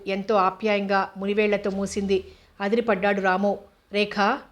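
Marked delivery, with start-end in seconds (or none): 3.9-4.4 slow, hesitant fearful question. Acted. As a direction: ask slowly, dreading the answer. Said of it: "భయంగా అడిగాడు". (భయంతో నెమ్మదిగా అడగడం)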